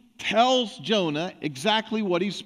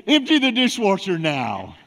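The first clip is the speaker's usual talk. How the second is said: firm parent command; 5 dB louder than usual. Shown as a demonstration. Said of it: "And you say".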